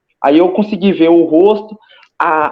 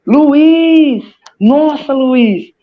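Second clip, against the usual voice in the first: astonished calling; 8 semitones higher, much slower than usual. Retold or imitated. Meeting her late friend in a vision, astonished cry. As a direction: cry out in disbelief at seeing him. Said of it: "eu encontrei ele e falei assim".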